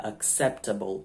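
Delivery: "acceptable" slowly, stressed on "cep"; early English stress. Shown as a demonstration. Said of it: "ela vem antes".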